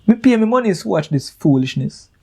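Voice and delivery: scornful rhetorical question. Retold or imitated. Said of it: "comes in like a punch".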